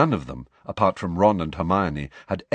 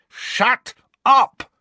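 much higher, louder yell; furious shout; 8 dB louder than usual. A narrator's reading. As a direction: blast it at the taunting ghost. Harry yells at Peeves.

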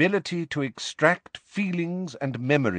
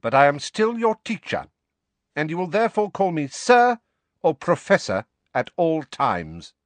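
louder, menacing warning; malevolent; 6 semitones higher, 4 dB louder than usual. Acted. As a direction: lean in with a threat. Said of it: "his eyes narrowed malevolently".

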